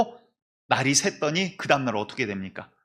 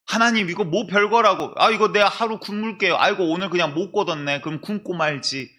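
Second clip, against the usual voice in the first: a higher-pitched, lightly acted protest; 대수롭지 않다는 항변; 4 semitones higher than usual. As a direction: shrug it off in a put-upon voice. 하나님께 변명하는 백성을 연기. (가볍게 투덜대며 변명하는 말투)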